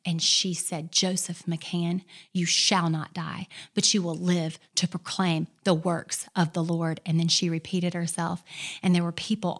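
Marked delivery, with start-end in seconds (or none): 0.9-7.0 authoritative decree. Retold or imitated. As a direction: declare it with full authority. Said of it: "with all authority".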